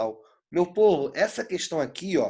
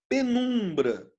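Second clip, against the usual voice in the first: Penumbra with a long, high NUM; stress on middle syllable; 5 semitones higher, much slower than usual. Shown as a demonstration. Teacher showing the tonic syllable, slow stretched stress on Penumbra. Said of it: "Então, o num é o quê?".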